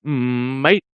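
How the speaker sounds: practising an Australian accent, drawn-out rising word. Shown as a demonstration. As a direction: try out an Australian greeting, tune rising. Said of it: "I've been practicing my Australian".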